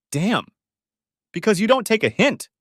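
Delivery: high, loud snapped retort; quoted outburst, high and loud; angry retort. Retold or imitated. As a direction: throw the words at him. Quoting her angry retort.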